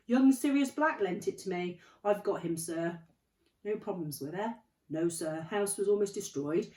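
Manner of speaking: big, loud, eager report; the gentle giant proudly reporting in; hearty giant Hagrid. Acted. Hagrid proudly telling Dumbledore he got the baby out, loud and hearty.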